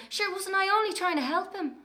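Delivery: high-pitched mock-innocent plea to Mam; girl defending herself to her mother, high and innocent; child's innocent excuse. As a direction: play the wronged little girl. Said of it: "And I'd say to Mam".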